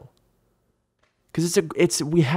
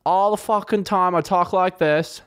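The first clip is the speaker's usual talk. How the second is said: higher, swaggering bro voice; 6 semitones higher than usual. Shown as a demonstration. Vlogger demos his old bro voice. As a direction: slip into the old bro character. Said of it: "I used to do a bro voice".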